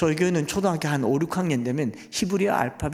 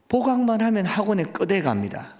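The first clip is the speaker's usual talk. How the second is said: Gyeongsang dialect; 6 semitones higher than usual. Retold or imitated. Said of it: "경상도 사투리로".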